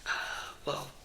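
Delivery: gentle whispered chat to viewers; ASMR whisper. Real, not acted. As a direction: whisper it all, close to the mic. ASMR whisper vlog throughout.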